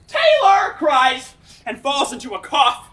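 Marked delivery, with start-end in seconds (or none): 0.1-0.7 sudden high squeal; high shrill cry. Acted. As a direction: yelp it out, high and loud. Aunt's cry voiced in tale.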